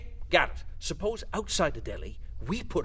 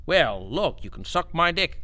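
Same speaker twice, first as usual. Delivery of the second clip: mock heartfelt demo; 5 dB louder than usual. Shown as a demonstration. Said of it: "Go ahead, try it".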